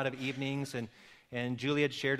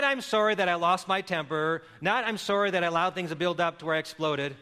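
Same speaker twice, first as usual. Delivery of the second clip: bad apology. Shown as a demonstration.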